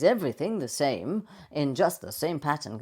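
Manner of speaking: repetitive up-and-down lilt; habitual delivery tone. Shown as a demonstration. Coach showing a habitual delivery tone, repetitive lilt. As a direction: give "same" and "pattern" the same repeated swing. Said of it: "fall into a habitual delivery tone".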